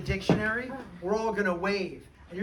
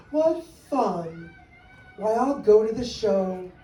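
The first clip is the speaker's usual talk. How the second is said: cheerful cry; 7 dB louder, slower than usual. Acted. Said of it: "she sang out".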